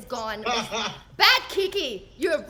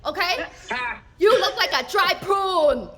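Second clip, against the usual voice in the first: mom's voice; 3 semitones higher, 4 dB louder than usual. Retold or imitated. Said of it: "she make this face".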